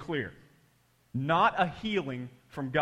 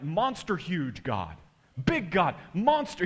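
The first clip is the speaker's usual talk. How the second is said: imitated fervent prayer; slower than usual. Pastor praising how big God is, imitated fervour. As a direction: build like an exclaiming pastor. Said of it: "he kept saying things like".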